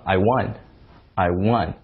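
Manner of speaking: I won, won like one; correct won. Shown as a demonstration. Teacher showing I won said right. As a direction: say won with a short uh. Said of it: "我赢了".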